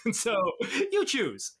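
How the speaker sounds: a breathy laugh through the words. Real, not acted. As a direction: chuckle it out. Laughing at wild plot.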